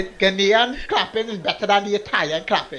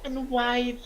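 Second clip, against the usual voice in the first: mock grand welcome; 7 semitones higher, slower than usual.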